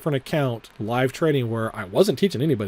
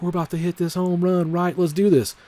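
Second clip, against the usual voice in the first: team hype call; 6 semitones higher than usual. Pretend. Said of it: "that's the only way you can include people's".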